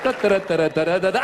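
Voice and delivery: light, rhythmic da-da-da; carefree little step sounds; walking noises. Acted. Comic miming crossing the street, light rhythmic noises.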